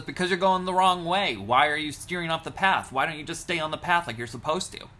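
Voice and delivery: loud, high exasperated yelling; angry scolding. Retold or imitated. Bilam furiously yelling at his disobedient donkey. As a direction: chew out the donkey at full volume.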